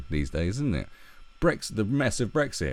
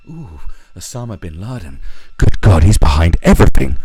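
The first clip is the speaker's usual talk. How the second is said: panicked citizen; 14 dB louder than usual. Retold or imitated. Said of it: "it used to be like".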